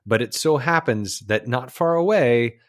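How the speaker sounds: measured documentary storyteller; nature film narration. Acted. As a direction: narrate it like an old wildlife film. Recites the film's narration.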